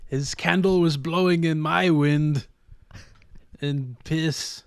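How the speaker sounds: mock French shopkeeper; French accent. Shopkeeper laments a singer in French accent. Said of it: "That French sneaker store".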